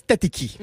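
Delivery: tatiki with two bare Ts. Shown as a demonstration. Showing what France avoids, tatiki with plain Ts. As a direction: say tatiki with clean hard T both times. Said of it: "En France, devient pas".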